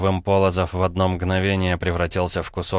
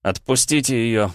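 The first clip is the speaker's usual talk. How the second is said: trembling voice; 4 semitones higher than usual. Acted. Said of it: "дрогнувшим голосом".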